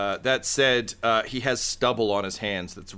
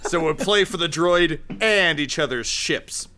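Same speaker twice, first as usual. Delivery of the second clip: smug rival voice; 6 semitones higher, 3 dB louder than usual. Acted. GM voices Rick.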